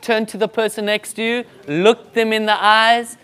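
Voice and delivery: rally the room, warm but firm; rousing instruction. Shown as a demonstration. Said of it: "And then we normally say".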